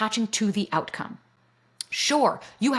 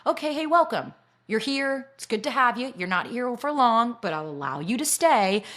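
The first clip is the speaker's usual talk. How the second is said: befriending welcome; 3 semitones higher than usual. Acted. Guest greets her own nervous system, welcoming it. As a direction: lightly act out welcoming an unwanted guest. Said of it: "I started to befriend my nervous system".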